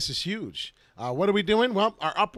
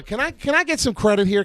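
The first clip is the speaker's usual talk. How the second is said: pleading for credit; 9 semitones higher, 9 dB louder than usual. Real, not acted. Demanding credit from the viewers.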